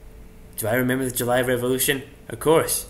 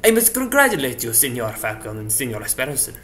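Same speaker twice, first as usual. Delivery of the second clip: put-on Spanish accent, formal congratulations; mock Spanish accent, falling away on the names; old Spanish accent; 2 semitones lower than usual. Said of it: "Still using that old accent?".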